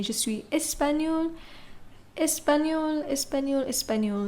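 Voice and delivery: espagnol said the same each time; Spanish nationality said clearly in French; teacher repetition; repeated demo. Shown as a demonstration. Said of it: "The pronunciation is the same".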